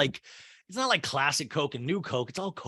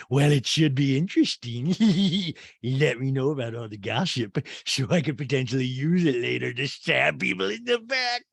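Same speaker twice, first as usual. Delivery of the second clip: giggly mock impression; Rinna; 3 dB louder than usual. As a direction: play it as a caricature with silly giggles between lines. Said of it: "Rinna goes".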